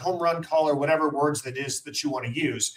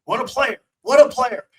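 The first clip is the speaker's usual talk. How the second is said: excited broadcaster voice, pitched up; gushing radio announcer; Sterling impression; 7 semitones higher, 5 dB louder than usual. Imitating Sterling's excited call.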